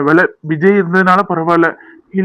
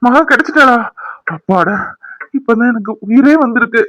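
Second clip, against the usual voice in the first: relieved excitement; 4 semitones higher than usual. Acted. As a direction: gasp it out with sudden joy. Husband hears wife is found. (மகிழ்ச்சியான உற்சாகம்)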